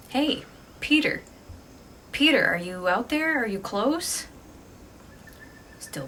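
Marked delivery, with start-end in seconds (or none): 0.1-4.3 a raised call, higher and louder. Retold or imitated. Jessie calls for her boyfriend in the woods, raised call. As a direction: call across the forest for him. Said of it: "decides to call out to her boyfriend".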